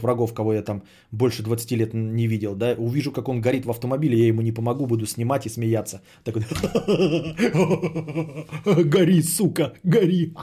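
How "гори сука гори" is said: gloating laugh between shouts; gleeful laughing. Pretend. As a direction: cackle and cheer the fire on. Gloats over an enemy burning. (злорадный смех)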